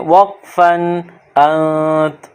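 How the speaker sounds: slow, انت with the final sound left silent; stopping on انت. Shown as a demonstration. Teacher showing students how to stop at the end. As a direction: stop on انت, last letter unspoken. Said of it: "last والے حرف کو silent کر دیتے ہیں".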